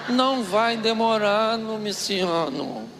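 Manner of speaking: sweet-talking. Retold or imitated. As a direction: charm him with memories. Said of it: "o tom de voz da minha tia mudou".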